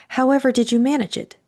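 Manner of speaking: high, wondering question; amazed and admiring. A narrator's reading. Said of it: "more in wonder than in curiosity".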